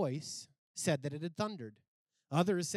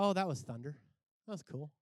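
casual dismissal; 3 semitones lower, faster than usual. Acted. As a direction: brush it off lightly. Voicing people shrugging off God's answer.

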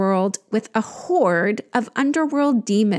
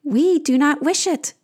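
creatures' refusal; 5 semitones higher than usual. Acted. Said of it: "they say in unison".

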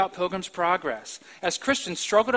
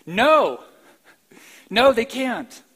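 loud, high, shouted denial; fervent preacher's no; emphatic no; 4 semitones higher, 8 dB louder, slower than usual. Real, not acted. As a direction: slam the door on the doubt. Answers Paul's question.

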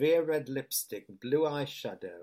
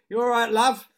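shopkeeper; 10 semitones higher, 12 dB louder than usual. Retold or imitated. Shopkeeper greeting her in shop.

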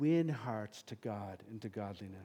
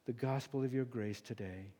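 closing prayer. Real, not acted.

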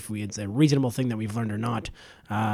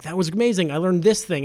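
imitated enthusiasm; 4 semitones higher, 4 dB louder than usual. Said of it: "then leave being like".

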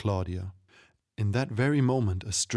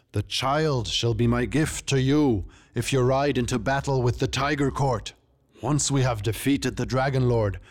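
forceful, declaiming king; proud ruler making his case; stately, emphatic royal speech; Tiger King; 3 semitones higher, 3 dB louder than usual. Acted.

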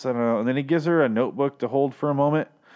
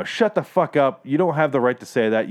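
real anger. Real, not acted. Viewer repeating it to the screen, angry and deliberate. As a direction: bite each word off. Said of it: "I'm saying that right now".

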